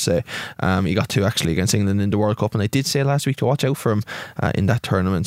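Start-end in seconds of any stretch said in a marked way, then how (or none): 2.5-4.0 steady, formal news-bulletin delivery; newsreader voice. Real, not acted. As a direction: read it like the evening news. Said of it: "It sounded like you were a newsread".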